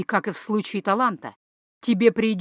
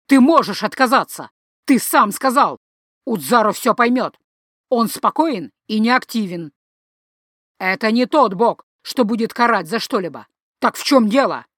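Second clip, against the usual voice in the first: agitated father; 4 dB louder than usual. Acted. Father arguing with son.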